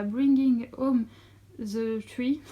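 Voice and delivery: English title in a French accent; English words, French pronunciation. Real, not acted. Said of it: "un aussi bel accent anglais".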